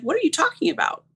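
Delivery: can't believe what he's implying; indignant disbelief. Retold or imitated. Woman on the phone, stunned by his escort remark. Man implies she's an escort.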